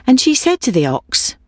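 ordinary delivery

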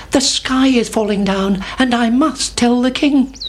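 high little chick voice; Chicken Licken. A narrator's reading. Chick runs to tell the king, high and urgent. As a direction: pipe it up like an alarmed chick. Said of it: "said Chicken Licken".

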